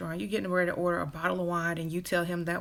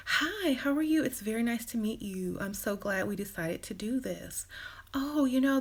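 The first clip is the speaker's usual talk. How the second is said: overly nice date; 4 semitones higher than usual. Acted. Too-nice woman on a date.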